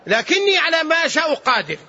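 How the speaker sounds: emphatic declaration. Retold or imitated. God answering His servant, emphatic declaration. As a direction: declare it high and sustained. God's reply declared, then repeated.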